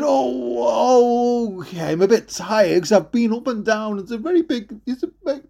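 put-on reluctant tired boy. Jack reluctantly answers Mum, tired.

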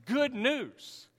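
slow, smiling 'good news'; with a smile. Shown as a demonstration. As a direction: draw it out with an audible smile. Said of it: "You can smile when you say it".

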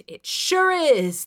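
high, loud, drawn-out retort; bark. A narrator's reading. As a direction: bark it slowly with sarcasm. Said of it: "I barked".

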